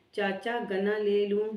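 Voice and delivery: slow call to someone out of sight; drawn-out call to the farmer. Acted. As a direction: stretch the words out so they carry across the field. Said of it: "نیزا نے برچہ اٹھا کر آواز دی".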